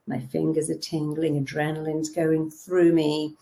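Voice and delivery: soft, hushed, savouring the rush; hushed thrill. Shown as a demonstration. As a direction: breathe it out like a secret. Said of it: "describing the thrill".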